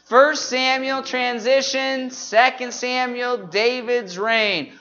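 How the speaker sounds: measured list with drawn-out key words; group recitation. Shown as a demonstration. Teacher running through the books with the congregation, measured group recitation. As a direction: chant them evenly for the room to follow. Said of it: "run through these ones here".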